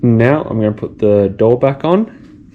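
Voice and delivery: talking with a screw in mouth; mumbled around a screw held in the mouth; mouth full. Real, not acted. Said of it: "I got the screw in my mouth".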